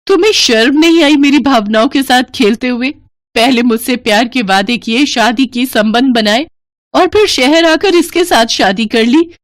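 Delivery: betrayed bride confronting her lover at his wedding, building fury; angry accusation. Acted. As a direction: throw the betrayal in his face. Betrayed woman confronts him.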